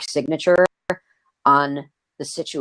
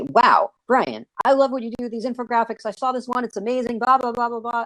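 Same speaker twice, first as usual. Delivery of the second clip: gushing client; 6 semitones higher than usual. Retold or imitated. Mock caller praising Brian.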